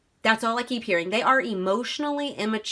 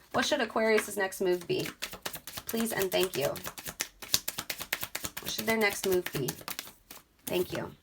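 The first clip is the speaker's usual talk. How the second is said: soft asking of Spirit; 5 dB quieter than usual. Real, not acted. Asks Spirit for guidance.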